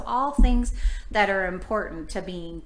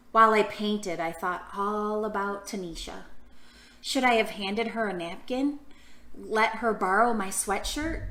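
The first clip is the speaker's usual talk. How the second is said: put-on reading to children. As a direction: read the story warmly to little ones. Reading picture book to children.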